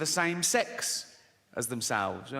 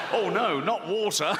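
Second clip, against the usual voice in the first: smug goldfish feigning dismay; mock dismay, pleased with itself; 3 semitones higher than usual. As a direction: smugly pretend to be worried. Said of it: "And he's all smug then".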